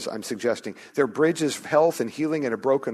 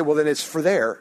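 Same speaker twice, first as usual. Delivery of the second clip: imagined listener objecting; 4 semitones higher, 5 dB louder than usual. Retold or imitated. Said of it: "you say".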